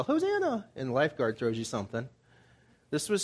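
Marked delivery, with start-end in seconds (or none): 0.0-0.7 mock yell for help. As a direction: call it out in a high, put-on voice. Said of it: "You don't yell".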